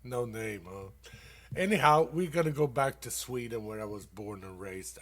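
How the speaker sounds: ordinary talk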